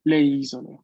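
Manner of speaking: "isole" stressed on its opening I; stress on first syllable. Shown as a demonstration. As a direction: say "isole" as I-so-le, leaning on the I. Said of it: "El acento está siempre en la primera sílaba".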